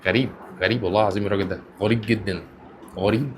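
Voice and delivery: soft, fast awed murmur; awed under breath. Real, not acted. Stunned by the rapper's flow, soft awed murmur. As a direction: murmur "غريب" in amazement. Amazed, muttering to himself.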